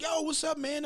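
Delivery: mock high friendly greeting; imitating guy.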